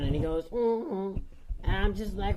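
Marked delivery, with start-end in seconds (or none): 0.5-1.2 sobbing. Acted. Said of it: "he's sobbing and blubbering".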